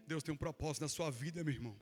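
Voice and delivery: mock believer's cliché, dropped low and soft; parroting a stock church phrase; cliché churchy line. Preacher mocks the cliché every believer says, low and soft. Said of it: "que é uma frase clichê".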